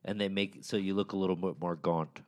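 talking with cheeks squeezed in; squished cheeks. Real, not acted. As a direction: squeeze your cheeks while speaking. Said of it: "I'm squeezing my cheeks as I say that".

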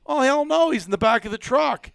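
high-pitched gleeful denial; spring the punchline on them; acted-out triumphant correction; emphatic reveal. Teller acts friend's big reveal.

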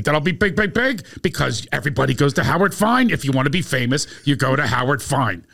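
eager, rising mock pitch of a wannabe; imitating his friend. Friend introduces himself to the class, hammed-up eager. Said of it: "He goes".

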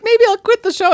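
high, loud put-on diva whine; overdramatic threat. Actress threatening to quit to Rose, overdramatic. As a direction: ham up a self-pitying threat. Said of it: "gets so overdramatic".

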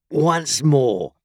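high, loud order; demanding convict. A narrator's reading. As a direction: demand it from a scared child. Convict orders boy to repeat.

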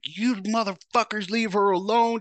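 high, loud protective yell; angry yell. Retold or imitated. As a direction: shout at the cops to stop. Yelling at cops questioning girlfriend.

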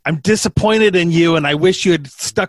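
put-on a light Missouri accent as a let-down father; a lightly voiced disappointed Missouri dad. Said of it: "this is my imitation of a Missouri accent".

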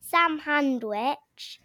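Sam Handwich, slow and deliberate; spoonerism. Shown as a demonstration. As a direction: say Sam Handwich, swapping the first sounds. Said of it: "These are my spoonerism poems".

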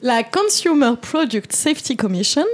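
French speaker's English accent, slow. Shown as a demonstration. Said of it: "j'ai peut-être un accent anglais qui n'est pas fameux".

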